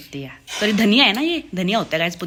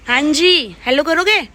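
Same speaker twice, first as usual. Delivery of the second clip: coaxing the dog; 8 semitones higher, 8 dB louder, slower than usual. Real, not acted.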